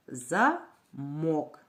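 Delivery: замок in two separate syllables, за - мок; syllable-by-syllable teacher demo of замок. Shown as a demonstration. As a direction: break замок slowly into за, pause, мок. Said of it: "Давайте вимовимо слово по складам".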